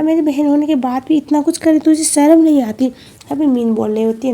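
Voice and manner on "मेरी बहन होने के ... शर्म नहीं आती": raised, louder retold telling-off; reproachful scolding. Kwan shaming her sister Min, reproachful scolding. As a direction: scold a sister, voicing it as storyteller.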